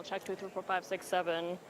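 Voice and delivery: muffled behind a hand; hand over mouth. Real, not acted. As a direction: talk through a covered mouth. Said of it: "Is it muffled now?".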